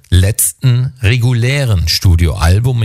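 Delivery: slow, deliberate weight on "regulären"; stress on regulären. Real, not acted. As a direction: set "regulären" apart and say it with deliberate emphasis. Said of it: "Ich betone hier das Wort regulär".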